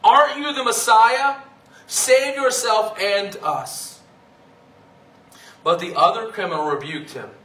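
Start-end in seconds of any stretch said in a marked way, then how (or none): 0.0-4.0 louder, higher jeer that slows on save yourself; insulting taunt. Acted. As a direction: throw it at him like a scornful criminal. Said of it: "hurled insults at him".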